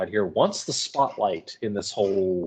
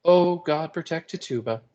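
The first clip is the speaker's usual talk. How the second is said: joining in prayer; 7 semitones higher than usual. A narrator's reading. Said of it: "Tituba joining with him".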